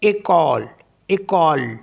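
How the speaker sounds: एकॉल with the final E silent; French école, ending on L; French pronunciation. Shown as a demonstration. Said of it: "E C O L E".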